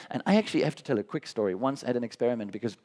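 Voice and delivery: rushing eagerly into a story; too fast. Real, not acted. Speaker hurrying to tell the audience a quick story, too fast. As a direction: talk quickly, tripping onward. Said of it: "Slower, but slower a bit".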